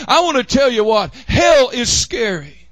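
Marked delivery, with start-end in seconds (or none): 1.3-2.7 southern accent. Real, not acted. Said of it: "pronouncing that with a southern accent".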